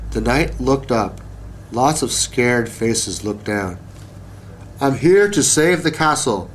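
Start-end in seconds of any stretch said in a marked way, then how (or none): 4.8-6.5 shouted. Acted. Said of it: "Sir Silly Billy shouted".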